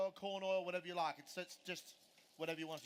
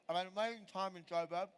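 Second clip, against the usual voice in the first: talking through a mouthful; chewing while speaking; mouth full; 3 dB louder, faster than usual. Real, not acted. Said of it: "Oh, sorry, I'm in my mouthful".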